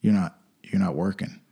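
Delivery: low, voiceless whisper; whispered accusation. Retold or imitated. Imagined government caller catching you skipping work, whispered. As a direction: hiss it like a secret charge.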